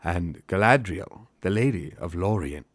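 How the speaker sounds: lightly declaimed elf speech in put-on accent; Haldir. Elf guide directing the company round the city, accented. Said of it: "to say in this accent".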